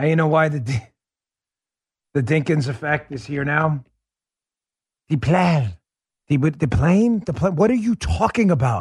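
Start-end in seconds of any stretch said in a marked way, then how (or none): 5.1-7.6 badly affected, fake put-on French accent. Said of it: "That was the worst affectation I have ever heard".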